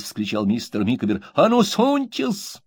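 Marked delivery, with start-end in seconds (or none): 1.3-2.6 high, slow, defiant dare; defiant challenge. A narrator's reading. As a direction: dare him to come closer. Micawber keeps threatening Uriah.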